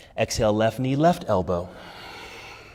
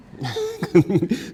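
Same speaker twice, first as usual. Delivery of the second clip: light laugh; 9 semitones higher than usual. Real, not acted. Laughs after own joke.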